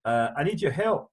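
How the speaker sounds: put-on reading a listener letter in a light Scottish accent; a passing touch of a Scottish accent. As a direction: slip into a hint of Scottish. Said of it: "I don't know why I went Scottish there".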